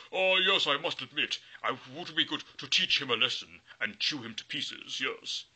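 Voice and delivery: high loud greedy troll, easing down. Acted.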